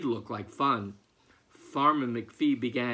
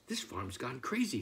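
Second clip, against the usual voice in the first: thinking aloud; 3 semitones lower, 6 dB quieter than usual. Acted. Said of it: "thought Farmer McPhee".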